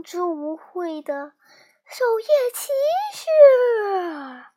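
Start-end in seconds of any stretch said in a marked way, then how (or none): 1.8-4.5 high, drawn-out final title; raised-pitch ceremonial flourish; grand proclamation. A narrator's reading. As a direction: announce the title, stretching the last word.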